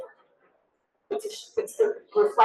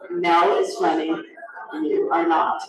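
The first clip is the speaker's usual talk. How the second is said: flat, dry and lower, every word level; deadpan; 7 semitones lower than usual. Retold or imitated. Coworkers shutting down a clinker joke, low and deadpan. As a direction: shut down a bad joke with a straight face. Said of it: "very deadpan say".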